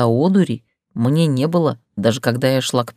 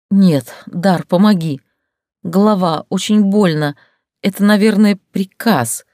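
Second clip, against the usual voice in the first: higher, louder pained plea; feigned pain; 4 semitones higher, 4 dB louder than usual. Acted. Heroine fakes a headache to Dar, pained higher plea. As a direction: fake agony to make him act. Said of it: "словно стараясь удержать стон".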